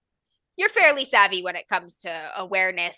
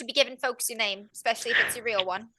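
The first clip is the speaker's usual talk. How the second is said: put-on little Irish girl giving a warning; amateur Irish brogue, lightly done; Irish accent; faster than usual. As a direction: caution them in a put-on Irish lilt. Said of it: "heavy Irish accent".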